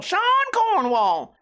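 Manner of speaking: very high, drawn-out silly voice. Pretend. Host playfully repeats a name from the article, high silly voice. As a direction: sing the name out in a playful falsetto.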